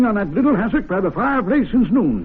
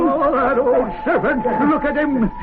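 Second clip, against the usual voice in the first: excited shouting; 4 semitones higher than usual. Acted. Club member sees devil in fire.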